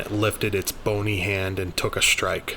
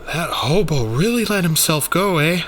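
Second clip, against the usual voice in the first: higher, louder wry joke about the monster; Rainey, wry; 8 semitones higher, 6 dB louder than usual. Acted. Rainey joking to Daniel over the dead creature, wry. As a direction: toss it off like a dry gag.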